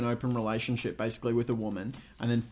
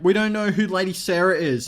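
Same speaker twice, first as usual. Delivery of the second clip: higher mock-child complaint; kids' voice; 4 semitones higher, 4 dB louder than usual. Confused kids talking about Lady Sarah, mock child voice. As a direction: whine it like a puzzled kid. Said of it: "just the way that kids speak".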